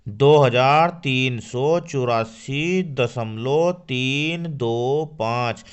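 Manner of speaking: slow, the digits तीन दो पाँच read one by one; teacher modelling the correct reading; slow model reading. Shown as a demonstration. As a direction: read it out slowly for pupils. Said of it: "क्या पढ़ेंगे हम?".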